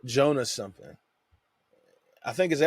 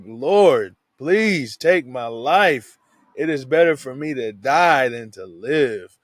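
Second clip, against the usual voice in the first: loud, slow desperate plea; pleading cry; 6 dB louder, slower than usual. Retold or imitated. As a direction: beg the Lord loudly to take your life, dragging it out. Jonah begs God to die.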